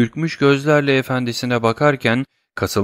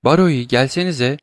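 calling out; 4 semitones higher than usual. Acted. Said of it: "diye seslendi Valentine".

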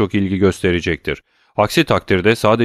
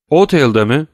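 sharp, startled cry, higher and louder; exclaiming; 7 semitones higher, 5 dB louder than usual. A narrator's reading. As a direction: blurt it out in shock. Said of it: "diye haykırdı Villefort".

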